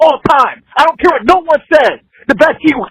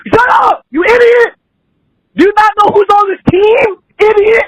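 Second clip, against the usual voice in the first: furious raised yell at the boss; caller's real angry outburst at his boss; 6 semitones higher than usual. Real, not acted. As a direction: yell it, fed up and livid. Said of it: "thrown off by the anger".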